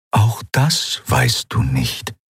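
slow, calm, otherworldly; Eidolon, serene; calm spirit voice. Acted. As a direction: answer slowly, serene. Eidolon replies.

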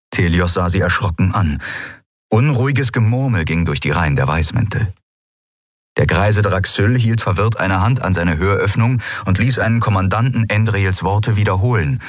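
ordinary delivery, nothing marked

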